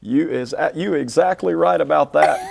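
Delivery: lightly played-up Southern US accent; playful small-town Southern accent. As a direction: answer as a Southern country boy, amused. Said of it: "you sound like you're from".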